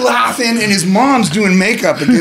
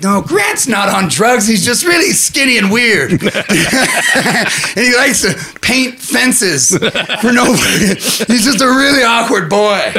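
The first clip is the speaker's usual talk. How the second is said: granny voice; 5 semitones higher, slower than usual. Retold or imitated. Granny defending grandson to family, lightly doting voice. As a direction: defend the grandson sweetly and fondly. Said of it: "Granny was like".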